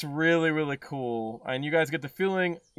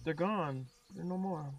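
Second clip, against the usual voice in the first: hushed ominous voice; 9 dB quieter than usual. Acted. Motif hushed.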